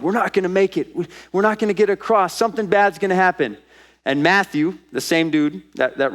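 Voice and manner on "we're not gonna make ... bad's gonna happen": higher, hurried acted alarm; a touch of freaking out, voice raised in pitch; mock panic. Disciples in a storm at sea, acted mild panic. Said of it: "They go into panic mode".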